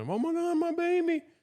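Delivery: very high, frantic, panicked cry. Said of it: "the mother gonna".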